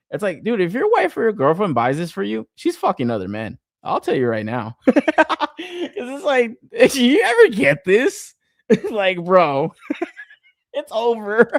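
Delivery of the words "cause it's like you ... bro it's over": high, breathless laughter through the words; can barely get it out for laughing; laughing hard. Real, not acted. Streamer cracks up telling viewers about the toy, laughing.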